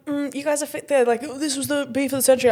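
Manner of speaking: lightly voiced hyped-up fan; a hint of an excited fan; mimicking fans. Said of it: "I'm still going".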